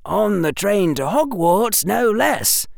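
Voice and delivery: put-on young boy muffled by scarf. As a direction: talk through a scarf over the mouth. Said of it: "said that young, muffled voice".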